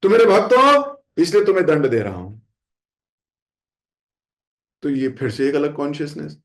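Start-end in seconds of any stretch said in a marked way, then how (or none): 0.0-2.4 a lightly stern Lord explaining punishment; firm loving declaration. Retold or imitated. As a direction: declare it firmly as a lord to his devotee. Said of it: "भगवान भी क्या कह रहे हैं".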